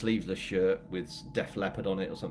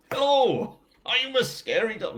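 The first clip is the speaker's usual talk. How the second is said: high, loud pretend dog voice; squeaky-high pretend scary pooch; mock scary dog; 13 semitones higher, 6 dB louder, slower than usual. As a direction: play a silly scary dog, pitched right up.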